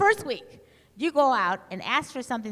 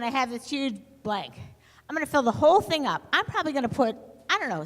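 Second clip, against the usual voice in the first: higher, bolder haggling pitch; pushy customer; 3 semitones higher than usual. Retold or imitated. Student haggling with a gas station attendant, a touch higher and pushier. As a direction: sell it like a driver bargaining for gas.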